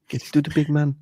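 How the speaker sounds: put-on jokey German-accented coaching call; mock German accent. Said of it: "in German accent".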